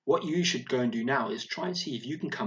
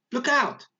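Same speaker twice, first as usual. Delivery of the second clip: high, louder cry of alarm; shouted warning; 12 semitones higher, 5 dB louder than usual. Shown as a demonstration. Teacher showing pupils how Yasmin shouted it, a shouted warning. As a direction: call it out as a sudden warning. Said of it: "this is how she said it".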